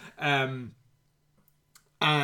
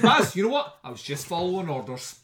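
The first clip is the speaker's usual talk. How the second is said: laughing mockery; 3 semitones higher than usual.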